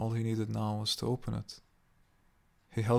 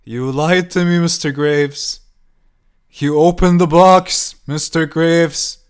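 higher, louder, slower screeching; escalated screaming; 6 semitones higher, 17 dB louder, slower than usual. A narrator's reading. Old woman pounding the door, slower, higher shrieking scream. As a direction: stretch every word into a shrieking accusation. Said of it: "She continued on with her screaming".

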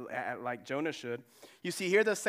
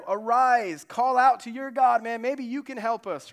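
much louder and higher, pleading order; urgent captain shout; 7 semitones higher, 10 dB louder than usual. Pretend. The captain ordering Jonah to call on his God, shouting. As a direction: demand he pray, loud and urgent.

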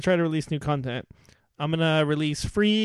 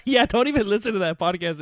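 higher voice, bubbling with laughter; laughing; 5 semitones higher than usual. Real, not acted. Host warning co-host off the podcast, laughing. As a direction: warn them off through real laughter.

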